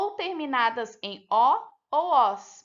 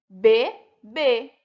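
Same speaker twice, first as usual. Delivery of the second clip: "Bebê" in two loud, separated syllables, final "bê" stressed; stress on last syllable; 9 dB louder than usual. Shown as a demonstration. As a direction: land firmly on the last "bê" of "Bebê". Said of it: "todas as últimas sílabas foram pronunciadas mais forte".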